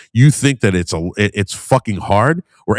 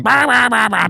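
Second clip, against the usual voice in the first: high mocking bah-bah nagging, much higher; mock nagging wife; 10 semitones higher than usual. Man mocking his nagging partner at home, high mock nag. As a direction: parody a nagging wife with shrill nonsense syllables. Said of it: "His old lady's going".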